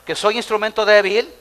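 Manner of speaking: preacher leading a loud chant; loud call to repeat. Shown as a demonstration. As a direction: boom it out for the congregation. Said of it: "Diga conmigo".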